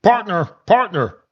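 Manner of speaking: high, soft mocking frog-puppet voice; mock them like a squeaky puppet frog; host mocking women as Kermit the Frog. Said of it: "They sound like Kermit the Frog".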